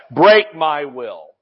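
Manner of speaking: mock altar plea. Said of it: "we would cry at the altar".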